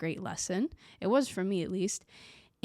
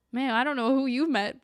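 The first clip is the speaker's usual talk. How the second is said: louder, disbelieving comeback; pushing back on someone praising Swedes, louder and disbelieving; incredulous retort; 5 semitones higher, 6 dB louder than usual. Retold or imitated. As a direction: scoff at the claim out loud. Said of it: "And I'm like".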